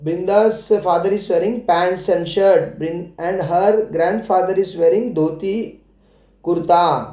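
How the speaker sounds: very slow, deliberate reading; teacher dictating a model sentence slowly. Shown as a demonstration. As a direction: spell the sentence out slowly for children. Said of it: "तो आप ऐसे भी बोल सकते हैं".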